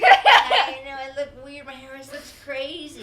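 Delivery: laughing through a sheepish mock greeting. Quoting Gabby after the night.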